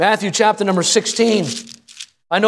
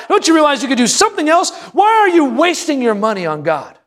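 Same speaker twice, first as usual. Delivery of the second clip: indignant relatives; 5 semitones higher than usual. Retold or imitated. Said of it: "they say to them".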